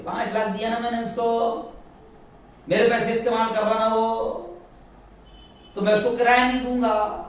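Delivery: the stubborn landlord who won't pay rent; defiant landlord. Acted. Preacher voicing a landlord, defiantly refusing rent.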